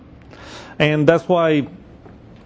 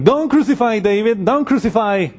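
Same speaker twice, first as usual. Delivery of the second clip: pleading crowd; 5 semitones higher than usual. Retold or imitated. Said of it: "they would have been fighting".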